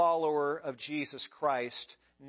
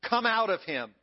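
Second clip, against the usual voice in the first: stern; 3 semitones higher, 4 dB louder than usual. Acted. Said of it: "Jesus said sternly".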